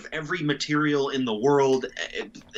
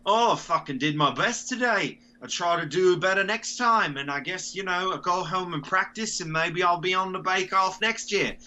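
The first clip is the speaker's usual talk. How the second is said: cheerful contestant; 6 semitones higher than usual. Retold or imitated. Voicing a cheerful Bake Off contestant.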